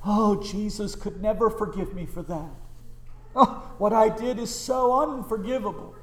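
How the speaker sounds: lightly hammed-up self-pitying lament; mock despairing sinner. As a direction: imitate someone wallowing in guilt. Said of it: "Don't ever talk like this".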